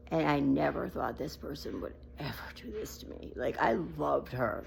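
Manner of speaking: a near-tearful, breathless whisper that almost breaks; holding back tears. Real, not acted. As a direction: whisper it while fighting back real tears. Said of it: "I'm trying so hard not to cry".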